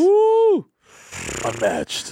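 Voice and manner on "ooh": loud high impressed ooh; high mock ooh. Real, not acted. Reacting to the bag collection, a high impressed ooh. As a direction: gasp like it's a treasure.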